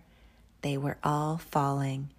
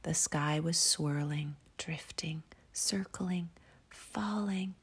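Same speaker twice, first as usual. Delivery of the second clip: whispered story. A narrator's reading. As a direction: breathe the story out gently. Whispered bedtime story reading.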